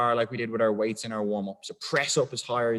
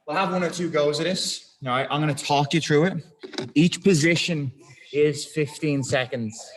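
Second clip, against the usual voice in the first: louder, projecting to the class; loud coach call; 2 semitones higher, 6 dB louder than usual. Real, not acted. Coach calling the timing out loud to the class. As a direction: call it out to the whole room.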